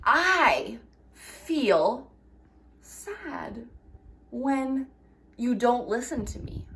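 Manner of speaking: calm, respectful I statement; calm I message. Shown as a demonstration. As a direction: say it gently and honestly. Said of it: "you can say".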